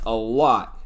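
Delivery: "a lot" slowed and weighted; stress on LOT. Real, not acted. Reviewer underlining his point about the film, stressing "lot". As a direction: lean slowly on "lot" to underline it. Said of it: "I'm gonna emphasize that".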